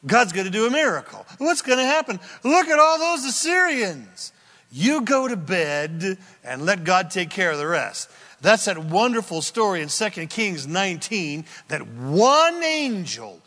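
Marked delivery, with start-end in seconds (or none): 0.0-8.1 Isaiah reassuring. Retold or imitated. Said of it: "Isaiah says to him".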